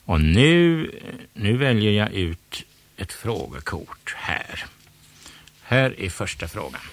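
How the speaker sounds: loud game show host; showman quiz host. Acted. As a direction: work the crowd as a quizmaster. Quiz host addressing audience.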